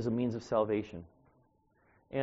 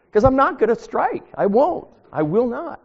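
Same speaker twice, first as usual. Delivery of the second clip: higher and louder, each no stamped down; firm loud vow; 10 semitones higher, 12 dB louder than usual. Real, not acted. Preacher vowing to his congregation never to hit back, firm and loud. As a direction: insist like a vow you will keep.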